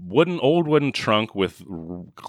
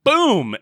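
drawn-out, slow "boom"; explosion boom; 6 dB louder than usual. Retold or imitated. Telling how the gasoline lights up, drawn-out boom. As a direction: punch and stretch it like a blast.

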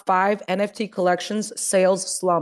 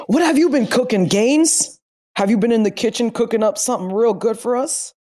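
hype host; 3 semitones higher than usual. Acted. Hyping up the host.

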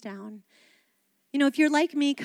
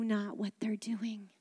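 tender whispered prayer; dying man's whispered forgiveness; 3 semitones lower, 10 dB quieter than usual. Acted. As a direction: let the words fall to a hush. Quoting Jesus's words on the cross.

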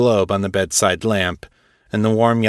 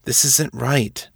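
hesitant protest; 5 semitones higher, slower than usual. Acted. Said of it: "Jessup said".

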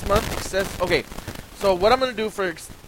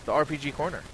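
dramatic. Acted. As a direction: announce it like a big finale. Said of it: "I didn't mean to sound all dramatic there".

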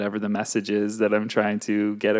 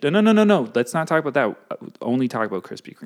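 playful refusal; 4 semitones higher, 4 dB louder, faster than usual. Pretend. Acted refusal to wife.

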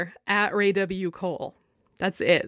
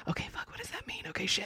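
whispered panic; 8 dB quieter, faster than usual. Pretend. Imagined panic over cryptic tarot.

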